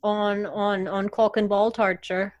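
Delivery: a hint of an Irish lilt; Irish accent. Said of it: "sex things in an Irish accent".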